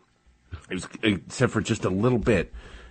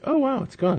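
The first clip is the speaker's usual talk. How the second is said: daughter's relieved cry. Retold or imitated. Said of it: "and then she was like".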